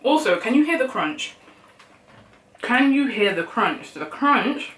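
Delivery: high and bright, thrilled; excited. Real, not acted. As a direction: gush about it excitedly. Excited about the crunch.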